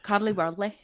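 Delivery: a light Scottish accent on Cuddly whirly; a lightly done Scottish accent. Shown as a demonstration. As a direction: say Cuddly whirly like a Scot, on request. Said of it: "Can you say that in a Scottish accent".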